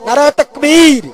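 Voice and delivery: نعرہ تکبیر called out strong, inviting the crowd's reply; full slogan call. Shown as a demonstration. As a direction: rally cry نعرہ تکبیر with a punched تکبیر. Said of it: "اس طرح نہیں".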